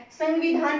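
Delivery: संविधान with an n, "san-vidhaan"; wrong pronunciation. Shown as a demonstration. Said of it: "नहीं बोलेंगे". (संविधान को "सन्विधान" की तरह, न की ध्वनि से)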